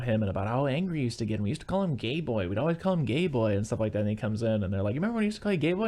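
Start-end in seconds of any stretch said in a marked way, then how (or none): 4.9-5.9 high-pitched mock sisterly teasing; teasing sisters. Sisters ribbing their brother over an old nickname, teasing. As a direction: voice nagging sisters, pitched well up.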